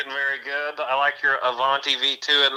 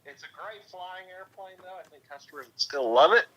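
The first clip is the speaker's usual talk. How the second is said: phone speaker; 3 semitones higher, 5 dB quieter than usual. Real, not acted. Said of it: "I got the phone next to the, uh, the microphone".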